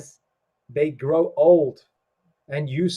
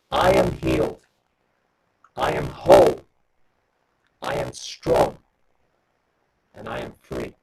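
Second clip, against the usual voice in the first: spoken affirmation. Shown as a demonstration. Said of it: "The affirmation is this".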